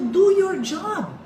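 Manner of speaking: high, loud and slow, demanding they act. Retold or imitated. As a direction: slowly hammer out each word at an official who won't help. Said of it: "siyempre, sabi ko". (malakas at mabagal na sigaw)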